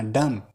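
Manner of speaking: dumb said as "dum", the final b left silent; teacher showing the silent b in dumb. Shown as a demonstration. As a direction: say dumb with no b sound at the end. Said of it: "यहाँ बी silent है, बी नहीं पढ़ना".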